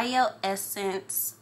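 slow "Bioessence", by-oh-ESS-ence in four syllables; careful pronunciation. Real, not acted. Vlogger telling viewers the brand name, slow careful "Bioessence". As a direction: sound out "Bioessence" slowly, every syllable clear. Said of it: "do not know how to pronounce".

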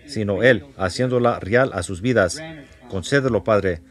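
earnest spoken prayer to the Father; earnest congregational prayer. Acted. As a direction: pray it steadily for the congregation. Leads a prayer after bowing heads.

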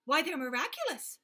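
little monkeys. A narrator's reading. Monkeys reassuring the gorilla in high squeaky voices. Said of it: "said the six little monkeys".

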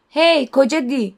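slow, mocking call down the street. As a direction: call after him with a taunt. Harry calls out to Dudley. (yavaş, alaycı bir sesleniş)

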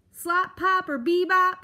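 loud, high irate porcupine; crying out. A narrator's reading. Porcupine hunting for a hidden mouse, shouting. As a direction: holler it out, high and forceful. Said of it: "the porcupine cried".

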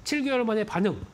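stuffy nose from pollen allergy; blocked nose. Real, not acted. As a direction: talk through a blocked nose. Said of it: "코 막힌 소리로 좀".

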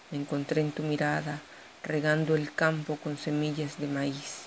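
measured poetry reading with pauses between verses; poem recital. Acted. Poet shares her own poem with an audience, poem recital.

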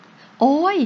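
short cry of sudden pain; pained yelp. A narrator's reading. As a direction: yelp as if shoved on a sore spot. Shoved man cries in pain.

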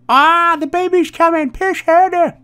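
very high, squealed mock panic; put-on high-pitched voice urging a woman in labour; panicked birth cry. Gamer acts out the passenger giving birth, mock panic.

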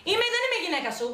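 high-pitched indignant comeback; angry retort. Acted. Acted marital quarrel. (αγανακτισμένη απάντηση με ψηλή φωνή)

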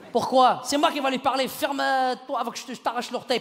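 mildly hammed-up paternal threat; indignant father. Father refusing to let his son talk, indignant scolding.

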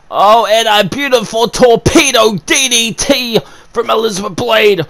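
high, lilting move call; sing-song excited call. Real, not acted. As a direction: call it out almost singing. Commentator sings out the move.

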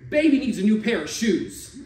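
loud, high, laughing call; winning gambler shouting with a laugh. Acted. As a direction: whoop it with a laugh. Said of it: "I shouted".

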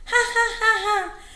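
high storybook jackal ha-ha-ha; hammed-up high cartoon laugh; acted laugh. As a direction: laugh it out in spoken, high-pitched syllables. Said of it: "હસતા ચહેરે કહ્યું".

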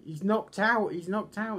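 high, loud mock commentator excitement; Vince. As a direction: call it out like a frantic ringside commentator. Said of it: "Vince was going".

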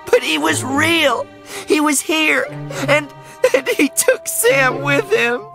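put-on high, tearful girl insisting; distraught high child voice; choked out. A narrator's reading. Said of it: "she choked out".

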